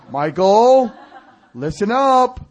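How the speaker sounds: playful imitation of a divine telling-off; scolding. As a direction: call him sharply to attention. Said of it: "the Lord scolded me".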